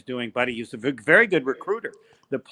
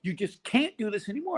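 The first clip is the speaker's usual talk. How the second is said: high-pitched mock yell at Homer; imitating a yell; 12 semitones higher than usual. Coach yelling at the announcer to stop the hype. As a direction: bark it like an angry coach pacing. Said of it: "Like he's yelling".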